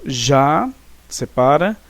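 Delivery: "Já" held as one separate syllable. Shown as a demonstration. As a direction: say "Já" drawn out on its own, as in scanning a verse. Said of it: "Vamos dividi-lo e ver".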